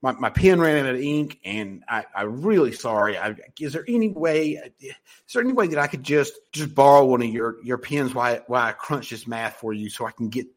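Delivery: mild mock fluster, asking to borrow a pen; flustered apology. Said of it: "there's tonality that you have to listen to".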